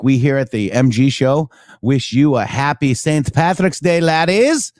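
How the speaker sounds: a hammed-up mock Irish lilt for St Patrick's Day; playful fake Irish greeting; bad Irish accent. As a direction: put on a cheesy Irish brogue. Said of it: "my bad accent".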